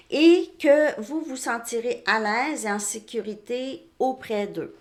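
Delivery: deliberate, emphatic oracle-card reading; card message read aloud. Acted. Tarot reader relaying guidance on soulmates, read out deliberately and emphatically. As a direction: read it out firmly and clearly.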